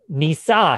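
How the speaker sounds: "Nisa" said loudly, stress on ni-; "Nisa" loud and deliberate; Hebrew word. Shown as a demonstration. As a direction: give "Nisa" a firm Hebrew accent. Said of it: "quite emphatic".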